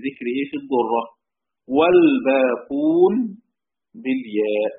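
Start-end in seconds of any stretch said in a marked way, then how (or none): 1.8-4.7 والباقون stretched very slowly and loud, then بالياء jumps high; drawn-out emphasis. Shown as a demonstration. Teacher stressing the rest of the readers' reading, drawn out. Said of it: "teacher stretches the key word".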